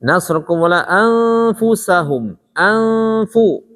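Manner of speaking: "anfusahum" with a long hum before FU; held, level nasal in "Anfu"; ikhfa before fa. Shown as a demonstration. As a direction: stretch the n in "Anfu". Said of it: "itu ketemu fa".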